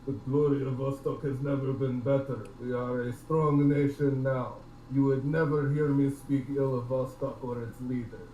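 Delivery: Russian trader forcing out patriotic lines; through gritted teeth. Acted. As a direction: praise it through clenched teeth. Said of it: "kind of talking through his teeth".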